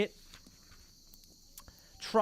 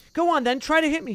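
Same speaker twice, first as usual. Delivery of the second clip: daring challenge; 9 semitones higher, 7 dB louder than usual. Acted. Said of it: "raising his fists".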